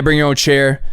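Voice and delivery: lightly imitated Midwestern drawl, even pitch; matter-of-fact promoter with a hint of Midwestern drawl. Promoter explaining BYOC, in a light Midwestern drawl. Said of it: "Midwestern drawl".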